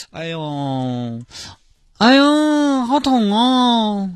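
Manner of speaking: high, slow hammed-up whimper; milk the injury for the handsome man; fake pain. Girl faking pain to attract the handsome man, hammed-up high whimper. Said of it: "苦情戏还是苦肉计嘛".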